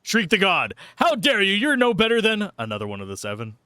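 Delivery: high, indignant mock god voice; hammed-up angry deity; mock biblical prophet. Reading the Mad Lib as a god.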